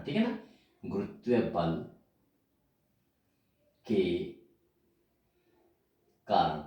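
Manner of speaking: word by word with long pauses, for copying down; slow dictation. Shown as a demonstration. Teacher dictating to students, slow and halting. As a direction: dictate slowly so students can write. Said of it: "तो लिखिए".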